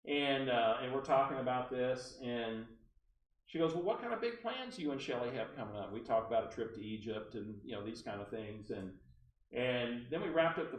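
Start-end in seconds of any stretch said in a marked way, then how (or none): 3.7-5.9 lightly imitated caller's accent; Barbara Delano. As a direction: ask with a hint of her accent, higher. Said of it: "I have to use her accent".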